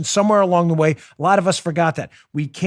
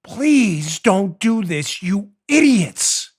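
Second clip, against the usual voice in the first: exasperated plea; much slower than usual. Real, not acted. Pleading with celebrities.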